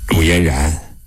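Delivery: measured official questioning. Acted. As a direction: ask for her account in a low, official voice.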